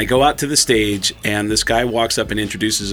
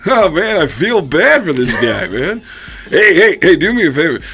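pleading, sympathetic voice pitched up; higher, swooping, empathetic plea; Norm Macdonald; 6 semitones higher than usual. Retold or imitated. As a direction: imitate a comic earnestly begging for mercy on someone. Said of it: "Norm was unbelievably empathetic about it".

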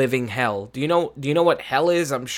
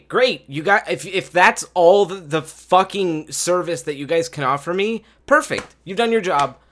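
sarcastic; 4 semitones higher than usual. Real, not acted. Sarcastic fake praise.

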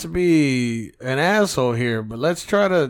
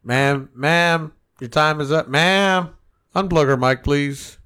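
mock moderator; 2 semitones higher, 3 dB louder, slower than usual. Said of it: "I'll moderate".

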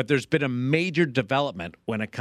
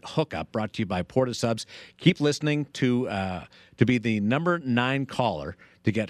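radio contest promo. Acted. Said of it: "Possibly the worst read ever for the holiday tailgate party".

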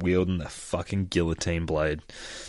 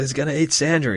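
panicked high voice; 8 semitones higher, 4 dB louder, faster than usual. Retold or imitated. Panicked student voice.

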